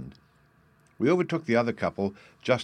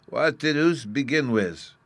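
put-on child voice; 6 semitones higher, 4 dB louder, slower than usual. A narrator's reading. Bruno entering the jest.

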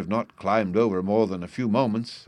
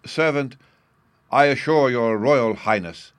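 respectful; 5 semitones higher, 8 dB louder than usual. A narrator's reading. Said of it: "Eric respectfully insisted".

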